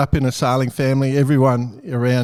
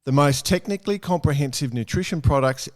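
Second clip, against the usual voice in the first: ad read; 4 dB quieter than usual. Acted. Sponsor read at show start.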